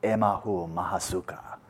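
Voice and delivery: slow, airy sigh of bliss sinking into cool water; elephant's blissful sigh in the cool pool. Retold or imitated. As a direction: breathe it out like pure relief. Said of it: "And it's like".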